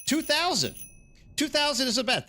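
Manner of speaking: thrilled at the number; real delight; excited. Real, not acted. Excited at lowered count.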